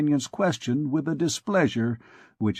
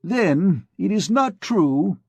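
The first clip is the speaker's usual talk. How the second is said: higher, louder, slow heated protest; hot retort; 7 semitones higher, 3 dB louder, slower than usual. A narrator's reading. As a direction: fire back in a rising temper. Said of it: "resumed Coictier hotly".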